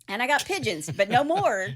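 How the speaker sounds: cranky father gloating over dead birds; grumpy old man rant. Retold or imitated. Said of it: "He's that guy".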